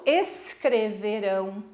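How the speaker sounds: "escreverão" said slowly with the weight on final RÃO; stress on RÃO. Shown as a demonstration. Teacher concluding it is oxítona, final RÃO stressed in "escreverão". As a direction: say "escreverão" measured, landing on the last syllable RÃO. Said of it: "A última sílaba é que foi a sílaba tônica".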